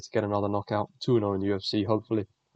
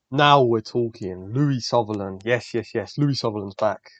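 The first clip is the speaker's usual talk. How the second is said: loud, slow, drawn-out hype; real excitement, stretched and loud; excited; 4 dB louder, slower than usual. Real, not acted. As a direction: savour it like your guy just showed up. Hyped for favourite fighter's matchup.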